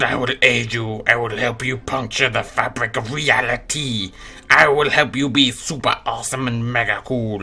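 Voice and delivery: Cthulhu voice. Acted. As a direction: speak like a looming elder god. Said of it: "now we've got Cthulhu".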